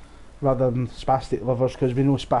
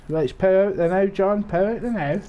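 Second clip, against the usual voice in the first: hyped up; 6 semitones higher than usual. Real, not acted. Hyped streamer shout.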